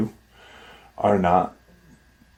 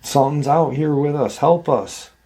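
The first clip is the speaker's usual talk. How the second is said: mild mock scream, higher pitched; understated cry for help, voice raised in pitch; retold scream; 5 semitones higher than usual. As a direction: imitate a boy calling to mom for help. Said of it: "youngest son scream".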